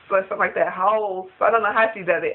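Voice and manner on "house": "House." again said with Trina's rounded O, like "hoal"; Trina's O accent. Shown as a demonstration. Vlogger repeats Trina's accented "House.". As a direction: lightly copy Trina's O in "House.". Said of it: "Her accent only comes out with O's".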